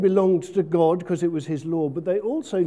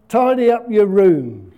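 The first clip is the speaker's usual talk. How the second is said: a firm, louder command to tidy up; parents' order; 6 dB louder than usual. Retold or imitated. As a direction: mimic a parent telling a child to tidy. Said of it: "they said".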